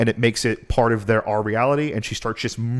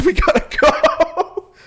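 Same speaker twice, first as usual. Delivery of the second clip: much higher, slow frantic plea; panicked urgency; slower than usual. Retold or imitated. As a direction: beg to leave right now. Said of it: "he's like".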